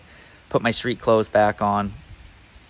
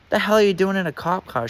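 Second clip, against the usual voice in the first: high, incredulous outburst; baffled retort; 10 semitones higher than usual. Real, not acted. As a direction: blurt out disbelief, pitched up. He's baffled at cop car.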